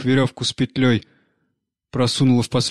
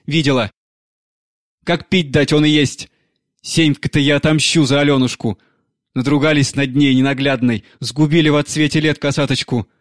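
louder, a hint of a vengeful crazed crone; vengeful old woman; 2 semitones higher, 4 dB louder than usual. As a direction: spit out a curse for revenge. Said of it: "говорит Агафья Тихоновна". (мстительная старуха, громче)

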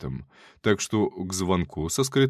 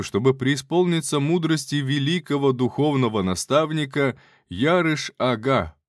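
loud announcing; 4 semitones higher than usual. Acted. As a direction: proclaim loudly and grandly. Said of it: "старался говорить как можно громче".

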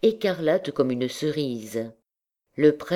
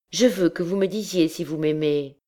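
put-on higher, childishly playful insistence; playful girl; 5 semitones higher than usual. A narrator's reading. Gypsy girl demanding to hear she is loved, lightly playful. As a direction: tease like a lovestruck girl. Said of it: "avec un enfantillage plein de folie".

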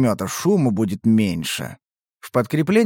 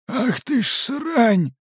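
high, drawn-out exhaled curse; breathed-out curse; 10 semitones higher, much slower than usual. A narrator's reading. Fighter curses at the feeding creatures, breathing it out high and slow. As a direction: let it out slowly on a breath, pitched high. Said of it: "выдохнул Сипл".

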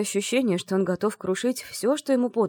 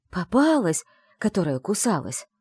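crazed drawl. Acted. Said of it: "с безумным видом протянул Андрей".

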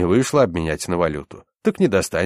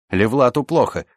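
higher, raised cry for help; alarmed shout; 6 semitones higher, 4 dB louder than usual. A narrator's reading. Stocky man calls for help, shouting. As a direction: call out that a comrade is down. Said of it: "закричал по-русски".

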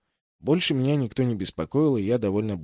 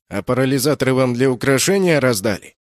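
displeased; 4 semitones higher, 8 dB louder than usual. A narrator's reading. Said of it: "недовольно спросил он".

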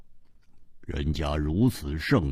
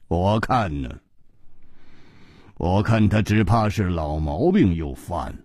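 lower, unhurried, dry teasing; leisurely teasing; 6 semitones lower than usual. Acted. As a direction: tease him lazily, trailing off to a whisper. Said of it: "季冰燕悠悠地说". (悠悠地慢声调侃)

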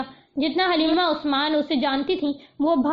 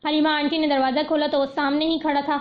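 ordinary delivery

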